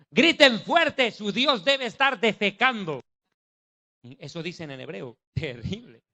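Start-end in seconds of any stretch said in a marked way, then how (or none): 0.1-3.0 mocking taunt. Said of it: "les gritaba esto".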